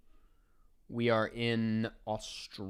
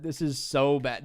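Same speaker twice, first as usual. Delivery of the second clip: louder dismay; 4 dB louder than usual. Real, not acted.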